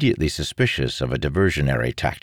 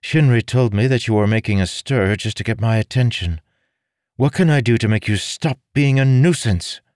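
high, brisk female reproach; impatient lady in charge; stern noblewoman; 7 semitones higher, 4 dB louder than usual. Acted. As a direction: confront a nuisance head-on.

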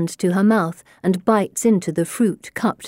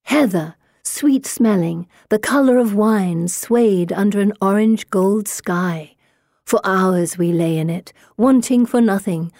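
reading aloud. A narrator's reading. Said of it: "Here, I'll read aloud".

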